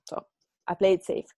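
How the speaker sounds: normal talking voice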